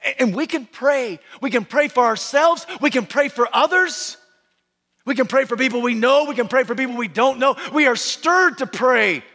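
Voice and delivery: high, driving pulpit cadence; forceful preaching. Real, not acted. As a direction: preach it in relentless, building declarations.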